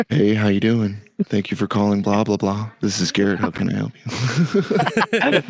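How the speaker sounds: lightly put-on customer service phone voice; friendly receptionist answering a call. Shown as a demonstration. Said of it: "my phone voice going".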